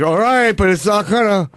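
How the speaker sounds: high, mock-childish protest; whiny daughter. Host playing daughter to the repairman, childish protest. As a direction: imitate a girl reluctantly giving in. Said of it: "like I was his daughter".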